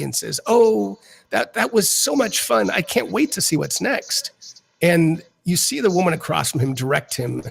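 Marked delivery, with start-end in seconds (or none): 0.5-4.6 higher, gushing with delight; happy player thrilled after the game; excited. Acted. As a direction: bubble over like a thrilled kid. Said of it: "very excited, very happy".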